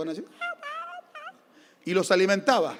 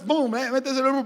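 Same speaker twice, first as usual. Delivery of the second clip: higher coaxing mother voice; insistent wife; 5 semitones higher than usual. Retold or imitated. Wife spoon-feeding the child, coaxing airplane voice. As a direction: coax like spooning in the last bite. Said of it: "decía mi esposa".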